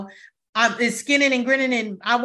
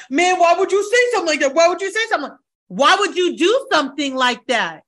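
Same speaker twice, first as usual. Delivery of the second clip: higher, louder, fast defensive whine of a mocked player; mock Keenan protesting; 5 semitones higher, 5 dB louder than usual. Mocking Keenan to her cohost, a fast, high, loud whine. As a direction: ham up an offended guy caught out. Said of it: "he'll be like".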